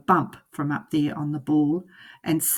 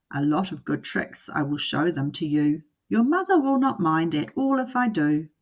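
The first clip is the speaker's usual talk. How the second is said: cat in the hat. Acted. Cat voiced in story.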